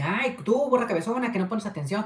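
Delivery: high, playful scolding tease; mock teasing. Teasing his wife over the tangled balloons, mock scolding. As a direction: poke fun at her like a bossy know-it-all. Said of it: "yo haciéndole burla a Evelyn".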